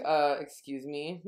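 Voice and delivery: slow, incredulous retort; lightly acted taken-aback question; mock disbelief. Acting out character's offended disbelief.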